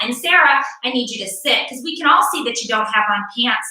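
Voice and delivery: a light online-teacher voice, not far from her own. Pretend. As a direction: talk like a primary teacher running a video call. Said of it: "it looks a little something like this".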